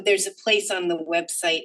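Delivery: speaking up. Real, not acted. Commissioner repeating a remark for a listener who can't hear, speaking up. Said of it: "Speak up a little".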